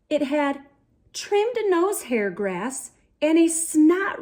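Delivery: put-on lively read-aloud for young kids; storybook reading. A narrator's reading. Reading a picture book to boys and girls, lively storybook voice. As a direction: paint the adventure for the little ones.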